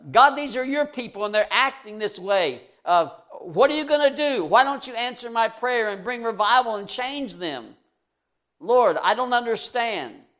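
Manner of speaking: high, loud, bewildered appeal; exasperated plea. Retold or imitated. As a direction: beg God to step in, baffled. Prophet pleading with God.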